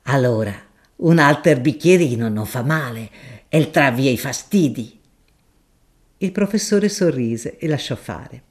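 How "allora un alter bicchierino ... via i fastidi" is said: a deferential, earthy shopkeeper making his offer; grocer Gaudenzio. Acted. Gaudenzio pours again.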